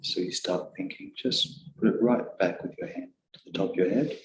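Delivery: softly spoken meditation guidance; guided meditation. Real, not acted. Teacher guiding meditators back to attention, softly spoken guided meditation. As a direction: guide them gently, a little hushed.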